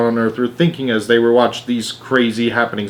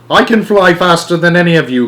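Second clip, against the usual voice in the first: louder boastful cry; cried out; 6 semitones higher, 5 dB louder than usual. A narrator's reading. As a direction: brag it out loud. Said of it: "cried Grandpa George".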